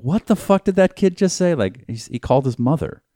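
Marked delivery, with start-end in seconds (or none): 0.0-1.5 higher-pitched retold disbelief; baffled. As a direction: imitate a shocked girlfriend. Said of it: "she was like".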